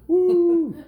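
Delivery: high, loud whoop; a big delighted woo as he drops; thrilled woo. Acted. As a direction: cheer the fall like a ride. Ralph falling off the table.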